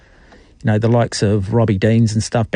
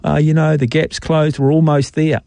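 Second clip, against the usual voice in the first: mock excuse-making; 3 semitones higher, slower than usual. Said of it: "I don't want to hear people going".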